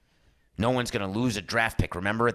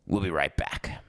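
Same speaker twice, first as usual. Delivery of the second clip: whisper; 6 semitones lower than usual. Real, not acted. Whispered sign-off before the break.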